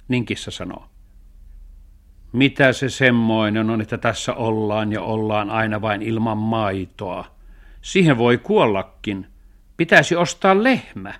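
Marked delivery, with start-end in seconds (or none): 2.3-11.1 lightly voiced grumbling cat, loud; complaining cat. Cat grumbles about living without milk, complaining. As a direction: complain as the cat, pitch climbing at the end.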